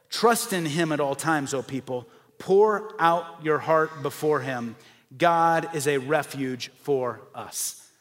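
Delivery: slow, deliberate psalm reading; slow reverent verse read; scripture reading. Acted. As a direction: let each phrase land slowly.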